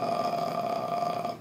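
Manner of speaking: creaky fry on a soft ah; low relaxed creak, barely voiced; vocal fry. Shown as a demonstration. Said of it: "Então tu vai pegar o fry".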